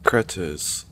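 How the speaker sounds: high, drawn-out exasperation; exasperated. Real, not acted. Player hurried along by game characters, exasperated. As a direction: drag the words out in exasperation.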